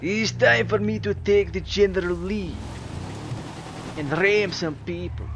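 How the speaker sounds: lightly put-on Russian accent; mock Russian accent. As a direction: play a comrade with a hint of Russian. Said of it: "The Russian accent".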